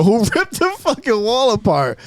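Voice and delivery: high-pitched incredulous outcry; baffled exclamation. Retold or imitated. Storyteller finding the wall torn open, incredulous. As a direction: retell a stunned "who did this" reaction.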